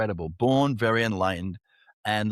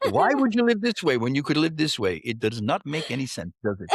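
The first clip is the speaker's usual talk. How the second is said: put-on Indian accent. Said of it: "you're so good at Indian accents".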